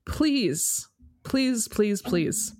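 drawn-apart pleas, starting high and stepping down; mock-solemn appeal to diners; earnest pleading. Real, not acted. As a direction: beg the listeners, one plea at a time. Begging listeners not to overcook steak.

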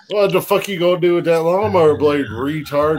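put-on loud, sneering threat from the abusive boyfriend; angry quote. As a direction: bark it like a drunk bully. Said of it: "The actor's like".

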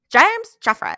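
high, loud Scottish scolding; hammed-up Scottish reprimand; mock Scottish accent. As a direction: call them out in broad fake Scots. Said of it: "Jeffrey in Scottish".

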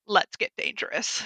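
slow, drawn-out cartoon hero catchphrase; a hint of a hammy superhero; Darkwing Duck. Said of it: "in the wise words of Darkwing Duck".

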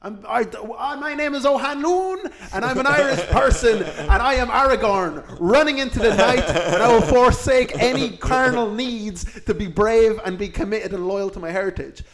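mock-heroic vow to the heritage; heroic brave soul. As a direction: play a noble Aragorn-style hero. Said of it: "some brave soul says".

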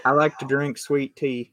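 imitated Southern US accent. Shown as a demonstration. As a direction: put on a Southern accent, copying a local. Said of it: "try and do it in a Southern accent".

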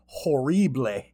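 put-on Cajun "ho-REE-blay"; hammed-up Cajun pronunciation, stretched final syllable; mock Cajun accent. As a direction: mangle it in a fake Cajun accent. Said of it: "Cajun accent".

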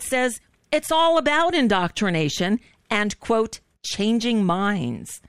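strained, fading voice; voice giving out. Real, not acted. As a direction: voice cracking as it gives out. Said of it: "my voice is giving out".

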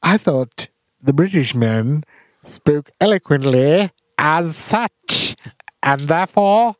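put-on slow, pompous old-fashioned British English; drawn-out theatrical British declaiming; mock eloquent British. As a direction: orate like a grand British gentleman. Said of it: "you're probably thinking ... We don't all speak like that".

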